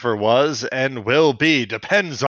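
hammed-up grave proclamation; mock dramatic. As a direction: declaim it like an overblown heroic speech. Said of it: "Being dramatic?".

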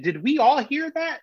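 high-pitched, incredulous check with the crowd; retold bewilderment. Stumped comic asking the crowd about the noise, bewildered. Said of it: "and bewildered".

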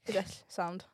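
sh said as a hissed Welsh ll; Welsh ll demonstration. Shown as a demonstration. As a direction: show the sh as a voiceless lateral hiss. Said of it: "they can't pronounce the sh sound".

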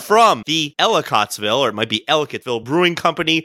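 drawn-out promotional read; beer label read. Acted. Host presenting tonight's beer, mock ad read. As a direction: read the label like an ad, stretching key words.

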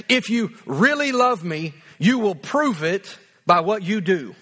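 weight on REALLY, drawn out slowly; demanding verse reading. Shown as a demonstration. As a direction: stretch REALLY, then spell out the condition. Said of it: "That's the way I read this verse".

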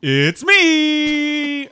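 high, loud burst of relief; excited cry. Acted. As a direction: shout it out triumphantly. Puddle spirit cries out.

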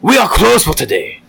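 polite shop clerk in a put-on Asian accent; hammed-up Asian accent, courteous; mock Asian accent. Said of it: "in an Asian accent".

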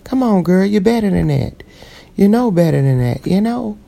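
high, pushed scolding of herself; stern self-talk. Retold or imitated. Scolding herself for cussing too much. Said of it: "I'm like".

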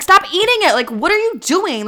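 very high, loud mock outburst; frantic retold scolding. Server to man eating his allergen, frantic scolding. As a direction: replay an incredulous, alarmed telling-off. Replays alarmed reaction to allergic customer.

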